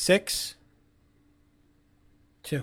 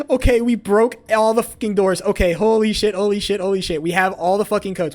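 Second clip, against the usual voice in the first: excited shouting; 3 semitones higher, 5 dB louder than usual. Real, not acted. Escaping after breaking doors.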